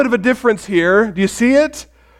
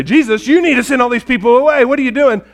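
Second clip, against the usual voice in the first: higher, quick mock reproach; mock scolding; 5 semitones higher, faster than usual. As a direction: act out bossy scolding. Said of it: "instead of scolding him".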